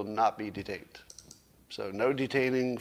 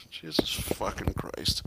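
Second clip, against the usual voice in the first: slow, angry whispered swearing; whispered curse; 5 semitones lower, slower than usual. Real, not acted. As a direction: hiss it under your breath. Cursing at microphone trouble.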